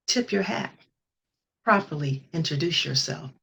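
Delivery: slow, intimate poetry recital; hushed raw poetry. Acted. Reads her poem aloud.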